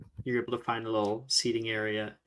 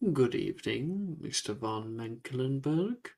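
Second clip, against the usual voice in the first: lightly voiced, courteous gentleman with swooping pitch; lightly played old-world host, drawing out the greetings; courteous ghostly gentleman. Ghost greeting two students at his door, courteous.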